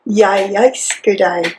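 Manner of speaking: repeating Jeg elsker deg slowly in Norwegian; careful Norwegian Jeg elsker deg; Norwegian pronunciation. Shown as a demonstration. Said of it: "Very good".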